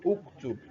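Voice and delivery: "Uktub" opening on a short u sound; dhamma pronunciation. Shown as a demonstration. Teacher models the answer to his own question, dhamma pronunciation. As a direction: say "Uktub" with an initial u vowel. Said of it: "Definitely you pronounce it as what?".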